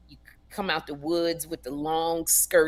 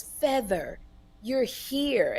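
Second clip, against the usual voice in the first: tender greeting; 3 semitones higher, 4 dB quieter, much slower than usual. Retold or imitated. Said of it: "he nuzzles my neck, and he goes".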